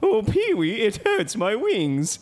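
high, slow pained whine; whiny puppet voice. Acted. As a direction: wail like a hurt cartoon bird. Terry the burning pterodactyl.

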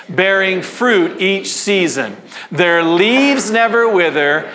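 slow, measured read-aloud for a crowd to follow; congregational scripture reading. Real, not acted. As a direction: lead the room in reading, stretching each phrase.

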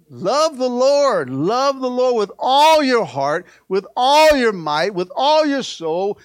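slow, rising chant of with all your heart, might, soul; slow emphatic exhortation. Shown as a demonstration. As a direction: preach each line slowly and firmly. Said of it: "Get, get, get cute with him".

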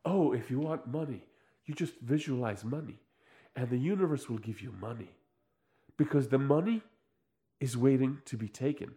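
mock metaphysician. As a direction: imitate a self-help guru, low and hushed. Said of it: "And he's just like".

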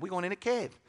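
imitated hard Yankee accent, softly said; retold line in a Yankee accent. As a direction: mimic a Yankee roommate's accent. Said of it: "he talked with a hard Yankee accent".

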